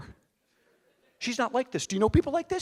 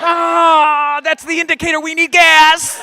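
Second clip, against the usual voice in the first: much higher, airy mock-wife voice; breezy wife; 10 semitones higher, 8 dB louder, slower than usual. Wife casually explaining the light, airy mock voice. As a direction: chirp it carelessly.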